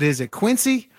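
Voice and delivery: Quincy with a crisp S sound; alternative pronunciation. Retold or imitated. Author retelling his question to the historic site, contrasting pronunciations. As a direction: say Quincy as QUIN-see. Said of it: "we called the historic site and we said".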